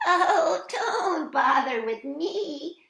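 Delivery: high, loud pleading squeal; squealed storybook protest; squealing little goat. A narrator's reading. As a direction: plead shrilly as a tiny goat. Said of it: "squealed the little youngest billy goat Gruff".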